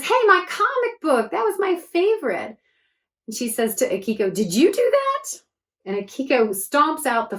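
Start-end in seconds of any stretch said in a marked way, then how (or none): 0.0-2.6 put-on upset girl. Josie upset comic book burns. 4.3-5.4 put-on accusing girl. Josie accusing Akiko.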